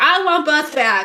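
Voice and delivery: very loud, high, dragged-out pleading. Mocking how the other speaker would make a scene: imitating a mellow plea. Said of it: "You're way too mellow".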